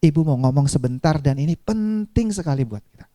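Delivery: put-on low, serious parent-to-child voice. Shown as a demonstration. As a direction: drop the pitch to signal an important message. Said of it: "maka rendahkan intonasinya".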